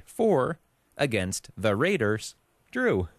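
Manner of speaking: slow, measured robot announcer voice; robot voice reading the matchup. Acted. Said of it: "all those robot voices".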